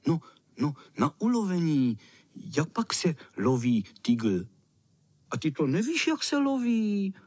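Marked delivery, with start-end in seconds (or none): 5.3-7.1 contemptuous. A narrator's reading. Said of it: "Řekli opovrženě ostatní".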